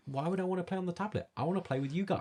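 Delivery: put-on high little-girl voice, quick; toddler voice. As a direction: squeak it like a small child. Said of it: "She was like".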